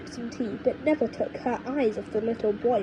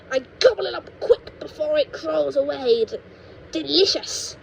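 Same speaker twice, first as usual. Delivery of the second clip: put-on high, cranky old woman lecturing; cranky grandma; 4 semitones higher, 4 dB louder than usual. Grandma scolds George about growing, in a high cranky voice. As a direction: scold like a mean little granny.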